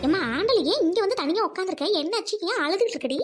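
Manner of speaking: startled and worried; alarmed concern. Acted. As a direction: ask a crying friend what happened. Finds friend alone and crying.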